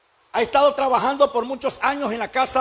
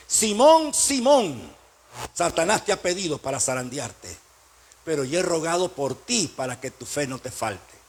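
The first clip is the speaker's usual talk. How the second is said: voice of Jesus; 7 semitones lower than usual. Acted. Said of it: "Por eso le dice Jesús a Pedro".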